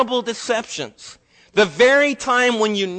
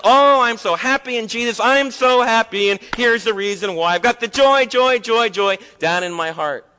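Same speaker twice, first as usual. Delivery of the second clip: higher, louder, gushing fake cheer; mock happy-clappy voice; 3 semitones higher, 5 dB louder than usual. Preacher mocking shallow Christian joy with gushing cheer. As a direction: parody the always-happy believer.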